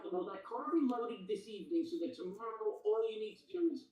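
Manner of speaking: muffled bad mic audio; underwater. Real, not acted. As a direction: sounds like talking underwater. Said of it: "Are you underwater".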